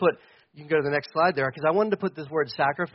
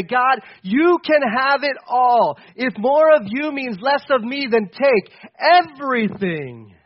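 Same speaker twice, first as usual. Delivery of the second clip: slow, a touch louder prayer of surrender; fervent surrender; 4 semitones higher, 4 dB louder, slower than usual. Acted. Pastor voicing surrender to God, slow and fervent. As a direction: give it all up to God, slowly and earnestly. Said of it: "we should be willing to say".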